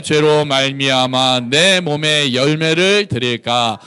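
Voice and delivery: slow, measured congregational recitation; scripture reading. Acted. Preacher leading the congregation in the verse, slow recitation. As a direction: read the verse out slowly and evenly.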